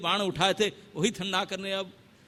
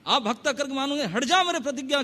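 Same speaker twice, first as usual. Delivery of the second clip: angry Rama; 5 semitones higher than usual. Acted. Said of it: "क्रोध मूर्ति हो रहे हैं".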